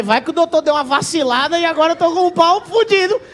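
rising, loud worried rant; mock panic. Patient fearing the doctor slipped up, mock panic. Comic panic over botched surgery.

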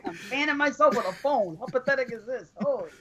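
breathless from laughing; winded after a laughing fit; out of breath. Real, not acted. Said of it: "I'm fucking out of breath".

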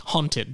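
haunted said as hawnted with an open ah vowel and soft t; his own way of saying haunted. Shown as a demonstration. Host showing listeners how he says haunted, hawn-tid. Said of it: "That is the word I am saying".

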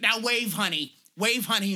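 mock-sweet directing call; imitating Doris. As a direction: coax her like a director off-camera. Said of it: "Doris is like".

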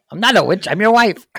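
put-on high, loud, laughing old woman. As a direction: squeal it through a laugh. Acted movie scene.

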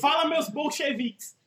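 high, drawn-out opening call; hype greeting. Shown as a demonstration. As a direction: hail the listeners like a show host. Trying out show-opening greetings.

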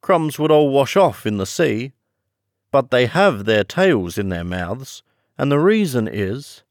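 high, loud creature voice; swooping, loud storybook turtle; Mock Turtle.

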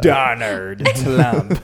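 slow, drawn-out mock Asian accent on Donald Trump. Host teasing the news in a mock Asian accent. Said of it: "Asian accent".

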